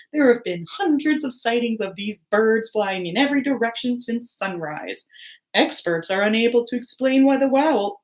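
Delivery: lightly voiced newsreader; news read. TV newscaster reporting odd owls, news read.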